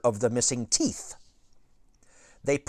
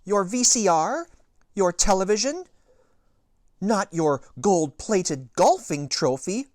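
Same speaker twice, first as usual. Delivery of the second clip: higher, lightly voiced anxious mother; worried Mom; 8 semitones higher, 5 dB louder than usual. A narrator's reading. Reader voicing Mom guessing, lightly worried. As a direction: rattle off guesses with worry.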